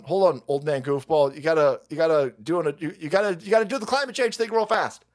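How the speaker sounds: usual speaking voice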